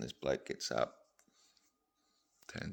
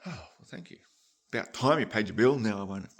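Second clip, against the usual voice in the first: gruff butcher; 3 semitones higher, 8 dB louder than usual. Acted. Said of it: "the butcher goes".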